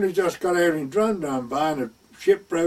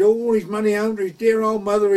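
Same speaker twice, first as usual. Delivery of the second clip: eager pilot; 5 semitones higher, 3 dB louder than usual. Retold or imitated. Pilot listing nephew's virtues.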